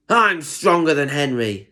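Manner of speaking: a mild, touchy retort; understated cross snap; snapping. Acted. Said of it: "snapped Diesel".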